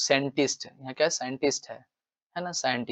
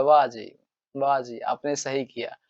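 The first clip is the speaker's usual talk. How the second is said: put-on mischievous boy praising. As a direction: tease with exaggerated praise. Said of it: "तो इस तरीके से बोलता है". (शरारती लड़के की हल्की नकल)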